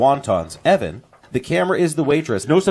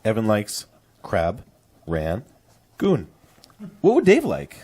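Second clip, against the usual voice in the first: imitated Chinese restaurant server accent, halting phrasing; mock Chinese-restaurant order-taker; 4 semitones lower than usual. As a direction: put on a Chinese takeout worker's accent. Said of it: "I did what could be considered an offensive accent".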